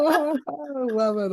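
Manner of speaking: slow and high, savour every word; drawn-out delight. Real, not acted. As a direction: gush with delight, stretched out. Delighted reaction to the videos.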